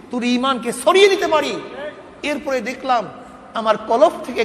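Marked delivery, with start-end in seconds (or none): 0.1-1.6 God's stern rebuke, high and forceful; acted divine voice, loud and raised in pitch; voice from the unseen. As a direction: thunder down a reproach from heaven. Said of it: "গায়েব থেকে আক-, আওয়াজ পেলাম".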